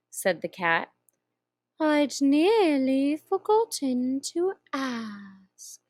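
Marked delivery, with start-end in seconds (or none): 1.8-5.8 slow, purring Cheshire Cat voice; slow drawling cat. Acted. Grinning cat teasing the lost girl, slow and drawn out. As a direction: stretch each word like a lazy cat.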